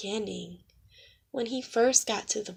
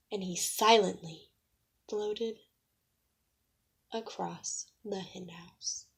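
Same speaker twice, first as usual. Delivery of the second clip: soft, slow and hushed; hushed narration; 3 semitones lower, 6 dB quieter than usual. A narrator's reading. Narrator hushing as the owl floats silently. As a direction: let it drift quietly.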